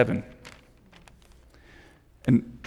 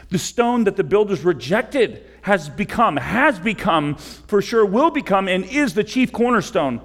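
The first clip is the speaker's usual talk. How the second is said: full-force preaching; 6 semitones higher than usual. Acted. Pastor urging the congregation toward Christ, preaching at full force. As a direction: preach it like a rising call to the congregation.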